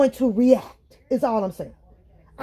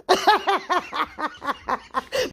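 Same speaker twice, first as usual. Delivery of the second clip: high rattling burst of laughter; long staccato laugh; real laugh; 3 semitones higher than usual. Real, not acted. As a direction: crack up at your own bit. Laughs at own impression.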